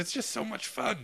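put-on posh British accent. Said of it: "stop copying my accent".

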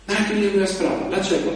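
ordinary talk

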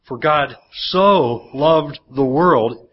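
For God so loved the world, each word drawn out slowly; slow it right down and let each word land; solemn slow scripture read; slow, weighty reading. Shown as a demonstration. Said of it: "it says".

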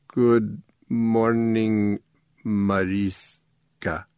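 slow, muffled toy robot; broken robot voice. A narrator's reading. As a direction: talk like through a bowl of soup. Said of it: "as if it were talking through a bowl of soup".

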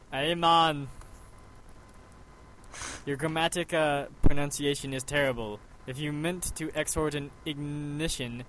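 light mock Jamaican accent; a hint of Jamaican accent, laid-back. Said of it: "what would a Jamaican accent do?".

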